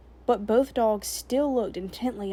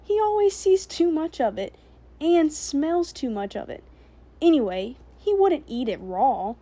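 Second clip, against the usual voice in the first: put-on higher, louder silly-girl giggling; giggly chatter; 6 semitones higher, 6 dB louder than usual. A narrator's reading. Girl to soldiers, giggling to seem harmless. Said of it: "she said, laughing".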